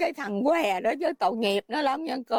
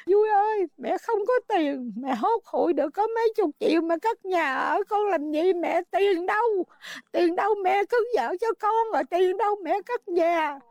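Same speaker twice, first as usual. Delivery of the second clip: tearful plea; 4 semitones higher than usual. Real, not acted. Mother answers son through tears.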